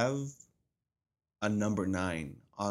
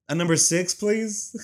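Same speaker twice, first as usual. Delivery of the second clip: higher, louder pleading order; changing the order; 9 semitones higher, 8 dB louder, slower than usual. Retold or imitated. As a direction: sweetly dodge the problem. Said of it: "I was just like".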